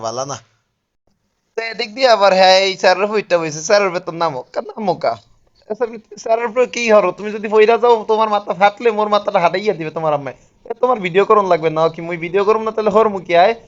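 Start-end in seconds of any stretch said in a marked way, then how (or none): 1.6-13.5 loud calls across the pool, higher pitch; calling out loudly. Real, not acted. Scolding the boys swimming in the pool, loud calling.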